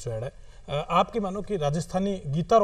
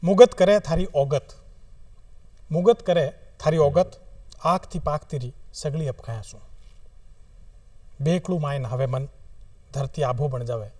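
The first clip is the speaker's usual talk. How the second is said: poetry recitation. Acted. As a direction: recite in short phrases with long pauses. Recites second short poem. (धीमै-धीमै कविता पाठ)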